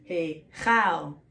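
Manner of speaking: CHAL with a flatter 'a' as in bat; flat vowel. Shown as a demonstration. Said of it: "more flat".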